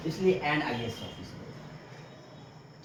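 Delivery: slow, stressing एन before IAS officer; slow model answer. Shown as a demonstration. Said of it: "आ से start हो रहा है ना".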